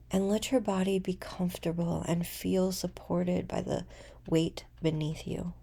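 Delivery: unhurried meditation voice with long pauses; guided meditation. Acted.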